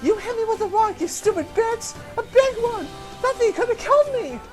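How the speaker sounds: high, loud outraged shriek; furious yell. Acted. Bleeding bully yelling at the old woman, furious shriek. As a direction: scream it at her in outrage.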